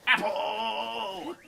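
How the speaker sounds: high, loud burst mid-thought; distracted high shout; sudden excited cry. Real, not acted. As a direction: blurt it out loudly on sight. Spots an apple mid-sentence.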